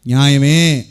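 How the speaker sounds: firm verdict. Acted. Voices Paul's firm answer.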